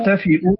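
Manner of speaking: تحتفئوا with a glottal stop before the final u; تحتفئوا, final vowel set off by a catch; with hamza. Shown as a demonstration. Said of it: "بالهمزة".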